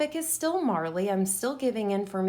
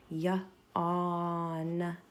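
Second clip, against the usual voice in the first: yawning; 3 semitones lower, 4 dB quieter than usual. Shown as a demonstration. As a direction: yawn stretched out like a real yawn. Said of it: "what do people do when they're sleepy".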